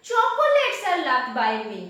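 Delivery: quick line with emphatic "Chocolates" up front; stress on Chocolates. Shown as a demonstration. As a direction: hit "Chocolates" first, rattle off the rest. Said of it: "The emphasis is on chocolates".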